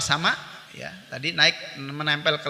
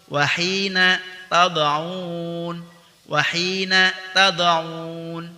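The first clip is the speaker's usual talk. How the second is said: Quranic recitation drill. Shown as a demonstration. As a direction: recite each word as a model for students. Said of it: "Kita berlatih".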